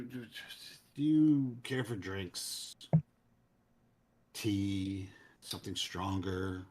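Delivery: slow, deliberate dismissal, then hosting; a measured host putting an underling in their place; lightly voiced curt cleric. Game master voices cleric Romog.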